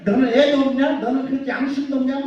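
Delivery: retold rant at a traffic cop; mock angry cursing. Preacher imitating his cursing at the hidden policeman, mock angry. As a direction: act out grumbling abuse, only mildly heated. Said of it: "막 하고 욕하는 거예요".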